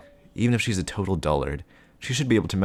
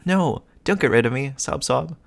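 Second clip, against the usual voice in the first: fake crying; 8 semitones higher, 5 dB louder than usual. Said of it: "if you stop crying".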